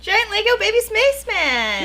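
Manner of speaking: high, loud excited exclaim. Real, not acted. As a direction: squeal it with delight. Excited echo of the gift.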